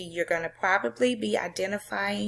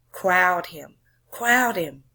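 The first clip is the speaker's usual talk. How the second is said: louder, pushing crowd him; urging shout; 5 dB louder, slower than usual. Acted. Teacher voicing the crowd at the game, louder urging. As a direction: drive the fielders to close in.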